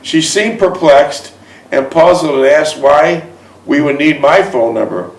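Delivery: measured read-aloud storytelling; story narration. A narrator's reading. Man reads his romance memoir aloud to a listener, measured narration. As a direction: read it like a personal memoir, phrase by phrase.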